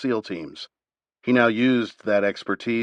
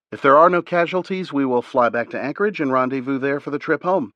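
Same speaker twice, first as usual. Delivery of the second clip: higher, brisk female pilot voice; a higher voiced woman laying out the plan; pilot Liz's voice; 5 semitones higher, 3 dB louder than usual. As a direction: lift the voice for the southern pilot briefing. Liz voiced in briefing.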